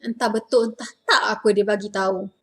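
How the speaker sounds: doubtful, quick everyday tune; natural Malay intonation. Shown as a demonstration. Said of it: "That's the right intonation".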